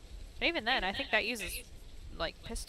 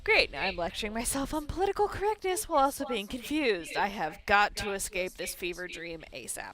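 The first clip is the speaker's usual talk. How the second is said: exasperated Ashley; 5 dB louder than usual. Acted. Ashley grumbling to herself, exasperated. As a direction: sound fed up and flustered. Narrates as Ashley in first person.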